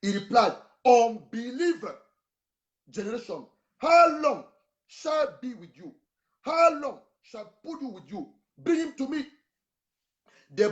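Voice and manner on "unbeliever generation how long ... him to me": raised, louder rebuke of a faithless crowd; angry Jesus. Acted. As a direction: scold them like an exasperated teacher. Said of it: "Because this guy was angry".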